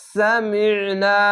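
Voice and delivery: সামিনা slowly, last vowel held long; drawn-out recitation. Shown as a demonstration. Teacher modelling the one-alif stretch, slow and drawn out. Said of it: "এক আলিফ টেনে পড়বেন".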